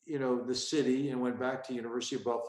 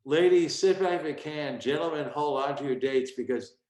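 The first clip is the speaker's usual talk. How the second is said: loud emcee intro; 4 dB louder than usual. Retold or imitated. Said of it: "he introduces me and he goes".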